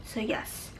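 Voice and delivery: breathless, short of air; squeezed lungs, struggling for breath. Real, not acted. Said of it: "I just sound like I'm panting".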